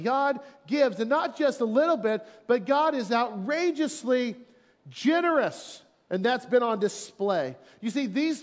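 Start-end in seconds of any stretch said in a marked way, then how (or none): 0.0-5.8 higher, rising to generous; excited preaching. Real, not acted. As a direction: build up to generous. Preacher building emphasis.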